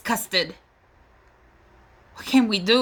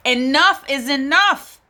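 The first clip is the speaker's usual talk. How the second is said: louder and higher, rising at the end; exasperated outcry; 4 semitones higher, 5 dB louder than usual. Real, not acted. A mother fed up with police violence declares it loudly. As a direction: put your foot down in exasperation. Outraged about police killings.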